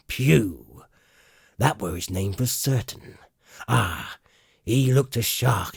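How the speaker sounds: quite excited. Acted. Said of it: "now quite excited".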